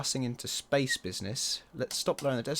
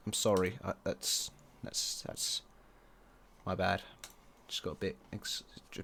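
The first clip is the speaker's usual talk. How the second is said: embarrassed mumble; 4 semitones lower, 8 dB quieter than usual. Real, not acted. Embarrassed after an outburst.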